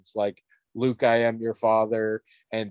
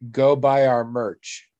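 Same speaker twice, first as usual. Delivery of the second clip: drawn-out, louder plug; slow mock merch plug; 4 dB louder, much slower than usual. Podcast host mocking the obligatory merch plug, slow. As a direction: sell it slowly like an ad. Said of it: "I'm supposed to say".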